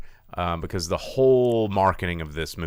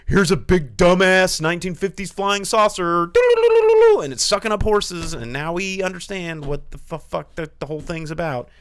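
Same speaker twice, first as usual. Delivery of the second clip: high, loud sarcastic trailer summary; mock the big reveal, pitched up and exasperated; mocking exasperation; 10 semitones higher, 7 dB louder than usual.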